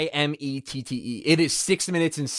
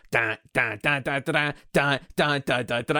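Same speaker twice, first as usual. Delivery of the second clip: guitar riff imitation; 3 semitones lower than usual. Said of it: "the guitar goes".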